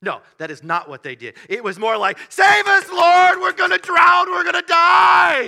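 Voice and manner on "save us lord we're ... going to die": very high, very loud, shrill, desperate panicked cry. Retelling the disciples crying out in the storm: imitating panicked pleading. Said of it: "They're panicking".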